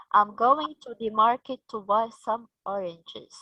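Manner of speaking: statement ending in a clear falling tune on oranges; falling tone demo. Shown as a demonstration. Teacher modelling a statement to students, falling tone. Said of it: "This is a rising or a falling tone?".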